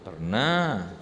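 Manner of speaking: "Pernah." answered with a falling confirming tune; answering for them. Shown as a demonstration. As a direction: answer the question yourself with a settled fall. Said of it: "answers own question".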